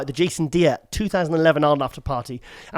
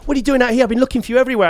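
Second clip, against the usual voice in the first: mock girly voice; 7 semitones higher, 3 dB louder, much faster than usual. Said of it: "She goes".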